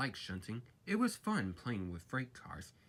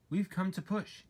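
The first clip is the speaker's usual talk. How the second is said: driver voice; 8 semitones higher, 4 dB louder than usual. A narrator's reading. Driver speaks.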